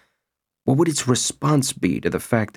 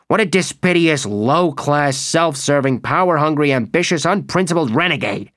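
scornful rant; 5 semitones higher than usual. Acted. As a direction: spit out each insult, building up. Graham rants about Provoni.

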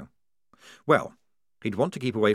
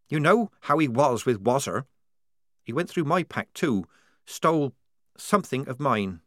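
higher, evasive; guarded young soldier girl; 5 semitones higher than usual. Acted. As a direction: keep the secret close. Polly voiced.

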